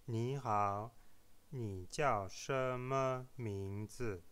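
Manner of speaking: slow 你叫什么名字 with intentionally misplaced Mandarin tones; deliberately wrong tones. Shown as a demonstration. Dialogue with deliberate tone mistakes for learners to spot. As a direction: stretch each syllable of 你好 and 你叫什么名字 on a wrong tone. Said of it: "des fautes volontaires dans les tons".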